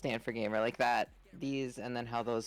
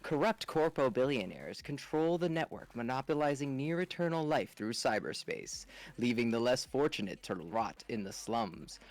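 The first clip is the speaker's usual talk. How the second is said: narrator voice. Acted. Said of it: "let me get my narrator voice going".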